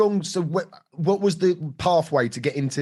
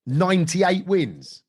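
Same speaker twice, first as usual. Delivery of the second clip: slow, higher-pitched disbelief; amazed echo; 4 semitones higher, slower than usual. Real, not acted. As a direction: repeat it back, drawn out in real astonishment. Host amazed at the fight record.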